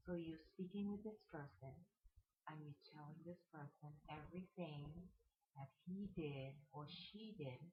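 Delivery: guided meditation. Acted. Guide helping listeners imagine talking to an ex, soft meditation voice. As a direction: lead them gently through it with long pauses.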